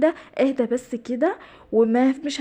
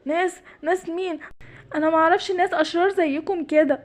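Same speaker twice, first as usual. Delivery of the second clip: a higher, nervous giraffe voice; frightened giraffe; 4 semitones higher than usual. Acted. The giraffe, hearing a hidden voice, answers higher and frightened. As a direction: play the scared giraffe looking around.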